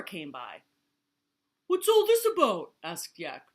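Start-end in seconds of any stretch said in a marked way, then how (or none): 1.7-2.7 high, booming question; loud inquiry. A narrator's reading. Yak comes by and asks, loud high call. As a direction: call it out over the noise.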